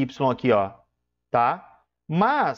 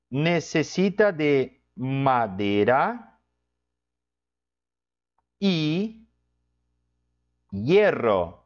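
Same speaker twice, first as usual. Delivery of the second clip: slow example reading; much slower than usual. Shown as a demonstration. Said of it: "Por exemplo".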